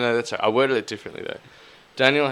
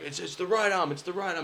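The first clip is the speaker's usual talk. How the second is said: urgent mock whisper-hiss; 8 semitones higher, 4 dB quieter than usual. Urging Dan mid-show.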